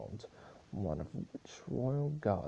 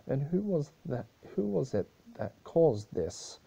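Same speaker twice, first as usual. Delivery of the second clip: dramatic question; 8 semitones higher, 6 dB louder than usual. A narrator's reading. Narrator's rising dramatic question.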